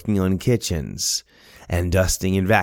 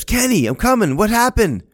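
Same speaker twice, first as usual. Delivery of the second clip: calling out; 13 semitones higher, 4 dB louder than usual. Retold or imitated. Running up stairs to son.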